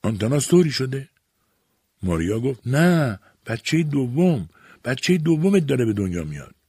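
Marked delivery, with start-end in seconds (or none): 0.0-1.1 high, startled questions; surprised and fearful. A narrator's reading. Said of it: "یورگیس با تعجب و ترس پرسید". 2.7-6.5 high, emphatic correction; urgent announcement. A narrator's reading. Maria breaks urgent news to Jurgis.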